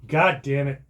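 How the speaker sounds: loud angry shout at the cat; angry scream. A narrator's reading. Owner yelling at the cat over a stolen bone, angry shout. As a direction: yell at the cat to drop the bone. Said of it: "I screamed".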